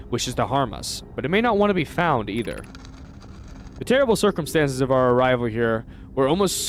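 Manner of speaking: measured, slightly dramatic read of alien writing; lightly voiced reading of an ancient message; reading text aloud. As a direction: read the translation like a solemn inscription. Reads Nomai text aloud.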